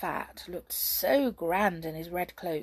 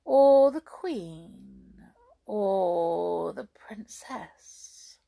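lightly voiced scheming witch; sly witch.

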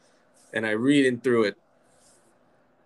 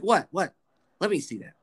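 imitated New York mom demanding to see; lightly voiced incredulous New York mother; New York Jewish mom; 8 semitones higher than usual. Mom asking to see the grade, incredulous New York accent. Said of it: "She talks like this".

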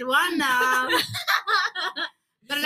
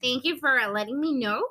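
put-on Latino accent. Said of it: "se me salió el acento latino".

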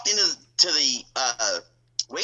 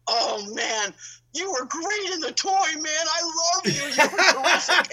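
lightly voiced beaming wrestler, higher; big smile; 12 semitones higher than usual. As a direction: gush it with a big grin. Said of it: "this biggest smile".

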